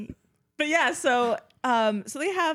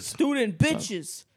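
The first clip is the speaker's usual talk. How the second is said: creepy killer voice; 3 semitones higher, slower than usual. Retold or imitated. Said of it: "it smells bitches".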